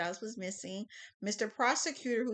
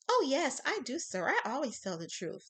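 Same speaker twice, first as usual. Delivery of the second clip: put-on old lady voice; 5 semitones higher than usual.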